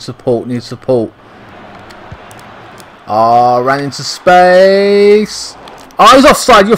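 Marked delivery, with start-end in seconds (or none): 3.1-5.5 drawn-out anticipation. Real, not acted. Watching a run develop. 6.0-6.8 higher, louder outburst of disbelief; exasperated shout. Real, not acted. Gamer yells as his player is caught offside, exasperated shout.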